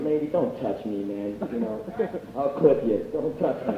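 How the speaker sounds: low, quiet mild threat; low warning. Retold or imitated. Warning a drunk woman off, low and restrained. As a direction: warn them off under your breath.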